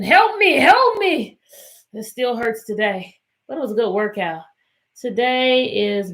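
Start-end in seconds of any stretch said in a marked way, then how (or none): 0.0-1.4 high, mock-pained plea for help; mock pleading calves. Teacher voicing her sore calves begging for help, mock pained. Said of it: "my calves were screaming".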